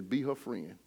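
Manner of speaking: low, hushed retelling; God's quiet word. Retold or imitated. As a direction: drop low and soft, as if recalling God's words. Retelling God's words to him.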